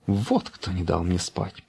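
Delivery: soft, slow muttered thought; quiet grumbling thought. A narrator's reading. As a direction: grumble it under your breath. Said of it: "подумал щенок". (тихое ворчание про себя)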